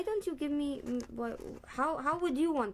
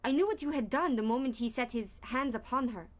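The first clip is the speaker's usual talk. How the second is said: hammy; faster than usual. Acted. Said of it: "just a little less hammy".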